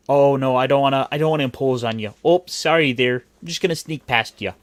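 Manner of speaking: apologetic Midwesterner, stretched vowels; Midwestern accent. Acted. Host imitating a polite Midwesterner excusing himself, Midwestern accent. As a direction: play an over-polite Midwesterner squeezing past. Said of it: "the Midwest is very much of a".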